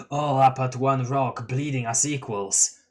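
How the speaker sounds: calm stoner clown delivery; laid-back clown voice. Acted. Gamzee line before reader's echo.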